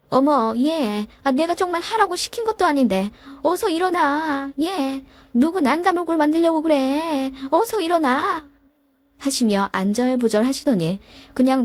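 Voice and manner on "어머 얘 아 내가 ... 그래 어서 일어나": higher, flustered pleading voice; a hint of an embarrassed older woman urging her up; flustered mother-in-law. Mother-in-law, embarrassed, urging her daughter-in-law to get up, higher and flustered. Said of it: "난감한 듯이".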